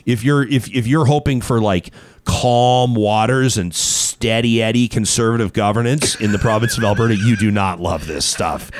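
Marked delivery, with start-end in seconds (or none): 2.2-8.7 straight-faced. Real, not acted. Host teasing about party turmoil, straight-faced deadpan. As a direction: keep a straight face, sinking to a low finish. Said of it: "How do you say that with a straight face?".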